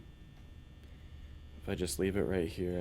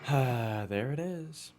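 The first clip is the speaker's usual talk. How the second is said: startled yelp rising high; scared horror game streamer; 6 semitones higher, slower than usual. Real, not acted. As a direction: jolt at the jump scare. Jump scare from Fox.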